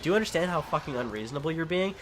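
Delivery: exasperated, uppity demand, retold; uppity indignation. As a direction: retell your indignant outburst at a neighbor. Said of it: "started to get really uppity with her".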